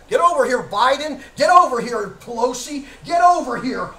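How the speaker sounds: loud commanding summons; booming call to judgment; Lord summoning. Retold or imitated. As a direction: bark each name like a stern judge calling them forward.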